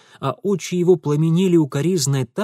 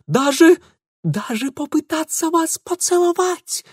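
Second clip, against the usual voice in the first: rising much higher and louder to a scandalized peak; escalating alarm; 11 semitones higher, 5 dB louder than usual. A narrator's reading. Ingvar warning Lidia of a kiss, escalating horror. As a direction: build to shocked horror.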